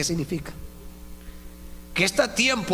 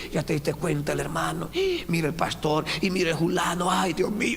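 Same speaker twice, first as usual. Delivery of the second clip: gossiping sister. Retold or imitated. Gossip voiced with gasps.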